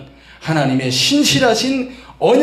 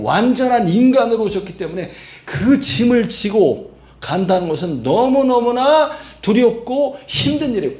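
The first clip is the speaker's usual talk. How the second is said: ordinary delivery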